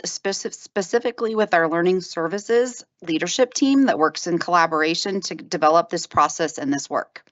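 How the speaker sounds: short of breath, holding back a cough; running out of air. Real, not acted. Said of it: "I'm running out of air".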